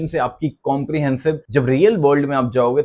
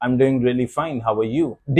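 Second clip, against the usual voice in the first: sour-faced reply; 3 semitones lower, much slower than usual. Shown as a demonstration. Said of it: "गंदी सी शक्ल बना के बोला है".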